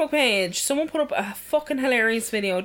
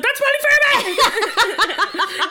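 excited exclaim; 11 semitones higher, 6 dB louder, much slower than usual. Retold or imitated. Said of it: "I just wrote it".

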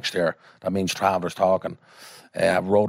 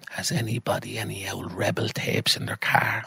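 slow, lightly voiced old woman; granny's voice; 3 dB quieter, slower than usual. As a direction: ask slowly as the ailing granny. Granny asks the room, voiced.

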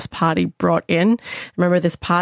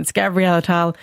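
Australian accent. Shown as a demonstration. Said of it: "I'm gonna say it in my Australian accent".

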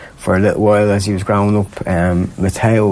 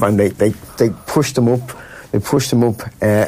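normal talking voice

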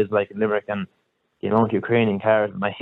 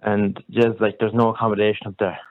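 Kerry accent. Real, not acted. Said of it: "I'm from Kerry".

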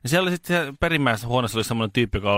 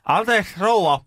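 higher-pitched, slow, careful asking; polite question to elderly patient; 8 semitones higher, slower than usual. Retold or imitated. Nurse asks old patient about thirst, politely. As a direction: ask the patient sweetly up high. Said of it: "Sit mä kysyin".

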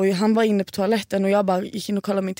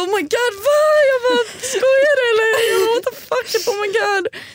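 much higher, loud panicked squeals; shrill shocked disbelief; 5 dB louder than usual. Retold or imitated. Retelling the hotel scene to her friends, high panicked disbelief. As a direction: squeal in horror at the exposé.

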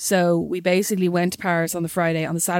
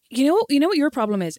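put-on condescending boyfriend; 6 semitones higher than usual. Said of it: "he was like".

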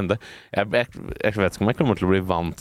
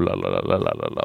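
mock low babble; 14 semitones lower, faster than usual. Mock whispered chatter to friend.

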